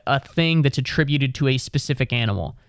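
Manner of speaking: ordinary delivery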